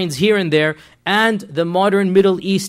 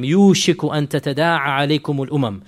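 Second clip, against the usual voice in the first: Arabic recitation; much faster than usual. Shown as a demonstration. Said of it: "the hadith of the Prophet".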